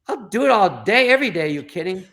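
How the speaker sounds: retold gushing eagerness; eager reply. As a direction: jump at the offer. Acted eager reply to his idol.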